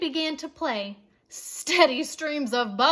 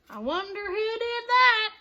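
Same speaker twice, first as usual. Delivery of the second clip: higher, puzzled question; innocent wondering fan; 8 semitones higher, 3 dB louder than usual. A narrator's reading. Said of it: "asked another fan".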